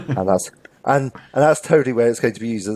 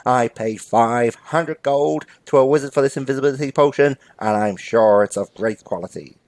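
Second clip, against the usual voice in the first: boastful bank robber. Acted. Robber defending his potion purchase, boastful comic crook. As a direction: boast with misplaced certainty.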